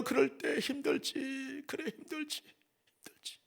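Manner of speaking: fading into a tender whisper; whispered comfort. Pretend. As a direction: soothe him, drop into a whisper. (속삭이며 위로)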